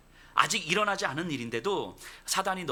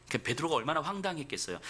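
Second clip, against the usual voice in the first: ordinary talk, nothing marked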